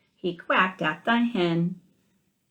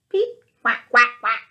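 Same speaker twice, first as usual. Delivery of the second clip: from high peep down to loud quacks; peep turning to quacks; 5 semitones higher, 8 dB louder than usual. A narrator's reading. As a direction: let the chick voice crack into a duck's quack. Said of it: "strange noises came out".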